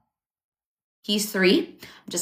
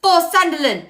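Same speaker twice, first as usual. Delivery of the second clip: mock excited commentator, pitched up; 8 semitones higher, faster than usual. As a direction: hype the goal like a pundit. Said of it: "they're like".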